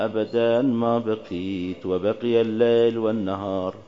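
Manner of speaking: slow devotional Arabic prayer; prayer recitation. Acted. Recites ziyarat prayer slowly.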